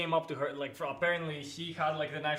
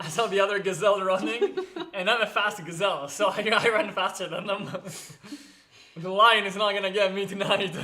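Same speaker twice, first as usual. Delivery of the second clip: amused, louder joking through laughter; laughing; 3 semitones higher, 5 dB louder than usual. Real, not acted. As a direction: crack yourself up while telling it. Joking he is a fast gazelle.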